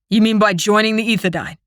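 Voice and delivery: a touch of scorn; scoffing. Acted. Brother scoffing at his sister's competition. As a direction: scoff at her choice. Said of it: "he scoffs".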